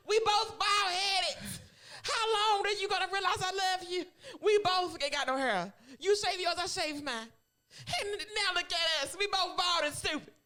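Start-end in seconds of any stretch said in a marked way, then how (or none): 0.1-6.4 mocking laugh. Mock voicing Jada's mother.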